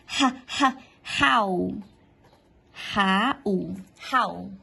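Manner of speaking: "how" built from "Ha, ha", then said whole; pronunciation drill. Shown as a demonstration. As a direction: repeat "how" for the class to copy. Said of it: "Pronúncia, let's go to pronunciation".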